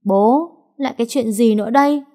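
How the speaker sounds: high, peevish daughter's retort; sulky annoyance. A narrator's reading. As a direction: snap back at father, fed up. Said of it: "Loan vùng vằng, bực bội". (vùng vằng bực bội)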